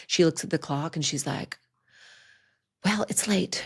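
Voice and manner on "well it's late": breathy, hushed mom voice; hushed, unbothered parent; half-whispered mom reply. Retold or imitated. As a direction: imitate a mother murmuring at night. Retelling groggy mom's reply.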